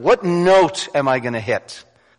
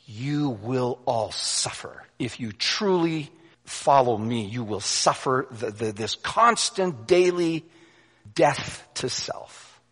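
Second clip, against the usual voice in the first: hushed solemn warning; 5 dB quieter, slower than usual. Acted.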